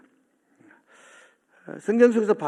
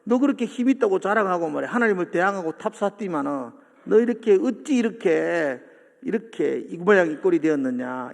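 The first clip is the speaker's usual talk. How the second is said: mildly raised, mocking taunt. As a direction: taunt the fallen boaster, drawing out the reproach. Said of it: "바벨론을 조롱하는 거예요". (비꼬듯 조롱하는 말투)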